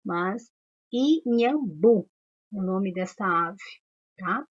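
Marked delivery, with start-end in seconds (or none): 0.9-2.1 "inhambu" slowly split as i-nham-bu; sílaba por sílaba. Shown as a demonstration. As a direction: say "inhambu" in three spaced, emphatic syllables. Teacher syllabifies the bird name. ("inhambu" devagar, separando i-nham-bu)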